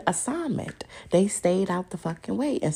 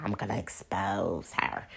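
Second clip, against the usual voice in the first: mock threat; 12 semitones lower, 5 dB quieter than usual. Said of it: "people talking about that".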